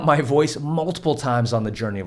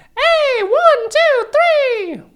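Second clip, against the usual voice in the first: put-on shrill, very high, very loud baby-voice shout; 8 dB louder than usual. Teaching scream technique, demonstrating a higher range with a baby voice noise. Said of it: "can you make a baby voice noise like this".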